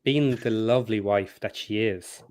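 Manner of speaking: slow, hushed conspiratorial whisper; whisper aside. Real, not acted. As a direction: let them in on a secret. Sly aside about wife.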